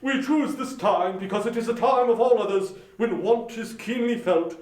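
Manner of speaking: lightly voiced charity gentleman; polite portly gentleman. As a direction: greet him with formal politeness. Gentleman asks donation.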